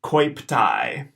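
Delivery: coiptai said koyp-tye; diphthong demo. Shown as a demonstration. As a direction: model coiptai clearly. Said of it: "the whole word is coiptai".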